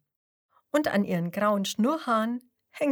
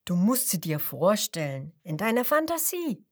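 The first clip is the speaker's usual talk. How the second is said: explaining grandpa; 4 dB louder than usual. Acted. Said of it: "erklärt Opa Fuchs".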